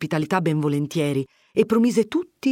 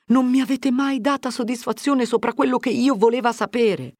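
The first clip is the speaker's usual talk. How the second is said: put-on higher young man complaining; a lightly voiced grievance; Fermo, reproachful; 9 semitones higher than usual. Fermo reproaches Agnese for never answering him, lightly voiced.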